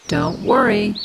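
a breathy snail whisper. Acted. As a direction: soothe him like a tiny snail, whispered. Snail consoles young beetle.

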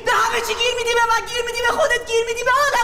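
angry shout. Acted. Wife lashing out at her husband, angry and high. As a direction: throw the accusation back at him.

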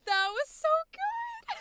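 high, loud, drawn-out delight; thrilled praise. Real, not acted. Coach praising the actor's take, thrilled and laughing. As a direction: gush in amazement, breaking into a laugh.

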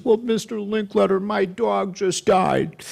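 put-on high, slow little-boy voice. A boy tells the host, high and slow. Voicing seven-year-old boy.

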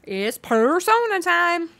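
high, loud, slow hype call; excited announcement. Real, not acted. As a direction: announce it like a showtime host.

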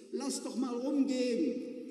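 lightly voiced passenger calling out; eager call from the back. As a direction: call across the bus to be let in on it. Passenger calls out in bus.

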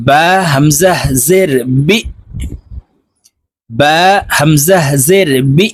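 "বি" cut off with a push; jerked hamza stop. Shown as a demonstration. Teacher drills hamza with learners, "বি" jerked to a stop. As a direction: end each "বি" on an abrupt glottal catch. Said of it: "ধাক্কা দিয়ে উচ্চারণ করতে হবে".

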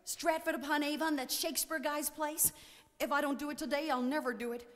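high American voice, growing tearful; distressed high-pitched American woman; building to a sob. A narrator's reading. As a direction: plead in an American twang, climbing to a wail. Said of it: "She ended in a sob".

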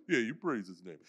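lightly voiced steady friend egging him on; calm encourager. Friend encourages converting man.

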